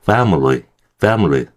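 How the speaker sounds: family with a schwa ending; family with weak, reduced vowels; family said fast and slurred. Shown as a demonstration. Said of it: "슈아로 발음해도 괜찮습니다".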